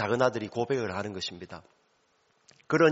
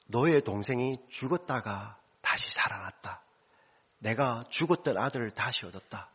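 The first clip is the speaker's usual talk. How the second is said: whispered father; 4 dB quieter than usual. Acted. Father quietly explains to elder son.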